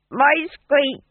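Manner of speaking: high, loud squeal between laughs; tipsy hilarity. A narrator's reading. Fool amused by his own joke, high tipsy hilarity. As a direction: squeak it out, breaking into giggles.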